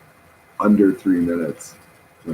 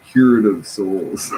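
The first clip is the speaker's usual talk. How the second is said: laughing; 5 dB louder, slower than usual. Real, not acted. Laughs right after.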